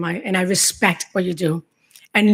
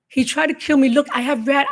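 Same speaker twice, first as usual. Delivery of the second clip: pleading; 6 semitones higher than usual. Retold or imitated. Pleading with the police.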